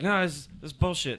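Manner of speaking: mock angry customer. Customer refusing to accept the bill, mock fuming. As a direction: scoff it like an offended customer. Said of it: "And he's like".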